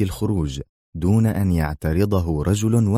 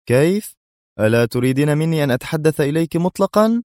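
higher, slyly feigned astonishment; mock surprise; 9 semitones higher than usual. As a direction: fake surprise with a sly edge. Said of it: "في دهشة مصطنعة وهو يقول في خبث". (دهشة مصطنعة بخبث)

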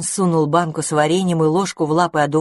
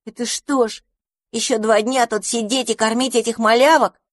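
grumbling; 6 semitones higher than usual. Acted. Dandelion grumbles.

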